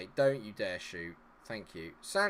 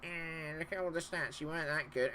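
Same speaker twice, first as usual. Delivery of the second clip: mocking critics; 4 semitones higher, 6 dB quieter than usual. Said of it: "Everyone goes on like".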